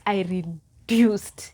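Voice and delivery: whispered slow, "reduced" drawn out; whispered repeat. Shown as a demonstration. Telling viewers how thin she got, in a slow whisper. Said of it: "let me tell you".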